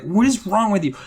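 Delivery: high, indignant disbelief; exasperated anger. Retold or imitated. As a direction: demand it in exasperation. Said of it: "I'm just so angry at Missus Rudolph".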